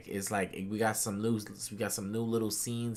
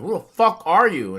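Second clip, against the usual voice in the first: retold admiral's yell; 8 semitones higher, 13 dB louder than usual. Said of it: "He was like, he was like".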